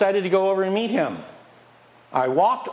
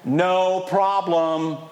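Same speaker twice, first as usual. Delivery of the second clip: confident reply; 3 semitones higher, much slower than usual. Shown as a demonstration. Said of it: "What do you say instead?".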